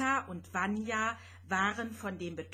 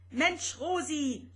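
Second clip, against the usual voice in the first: higher, loud rattling outburst; clattering exclamation; 6 semitones higher, 4 dB louder than usual. Acted. Vanya exasperated with Rosetta's eyesight, loud rattling outburst. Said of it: "schepperte Vanya".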